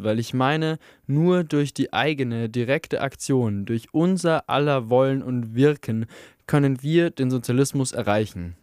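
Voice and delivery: lightly voiced agitator, sardonic; a hint of a passionate anarchist orator; fiery anarchist speech. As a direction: win over the miners with scorn for the party. Speech continues.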